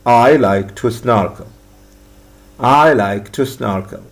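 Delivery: slow, clear classroom model sentence; slow drill reading. Shown as a demonstration. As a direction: read it slowly for learners to repeat. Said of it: "what do you like to do?". (قراءة بطيئة وواضحة للتكرار)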